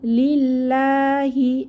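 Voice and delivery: slow chanted recitation; measured recitation tone; Quran recitation. Shown as a demonstration. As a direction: stretch the vowels as in tajweed. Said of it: "প্রথম আয়াত আমরা দেখি".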